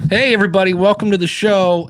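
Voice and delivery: hammed-up welcome to listeners; mock podcast host. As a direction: imitate an amateur host kicking off. Imitates an amateur podcast intro.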